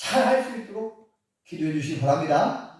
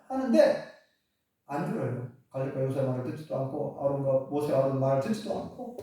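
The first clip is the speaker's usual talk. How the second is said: ordinary talk, nothing marked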